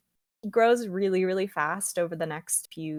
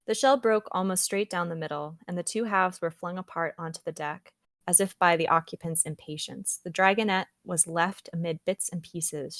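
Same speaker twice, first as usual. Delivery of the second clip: reading aloud; 2 semitones lower than usual. Acted. Reading the dragon's hatching to her co-host, narrated. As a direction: read the passage like a narrator. Reads the book's description aloud.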